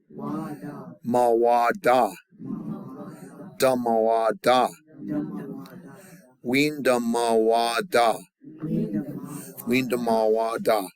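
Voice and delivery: slow syllable-by-syllable "Winda ma wa da"; backwards buildup. Shown as a demonstration. Teacher building a long word for the class. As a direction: build the word back to front, slowly. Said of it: "backwards buildup".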